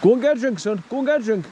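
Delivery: high sing-song urging to a dog; coaxing the dog. Real, not acted.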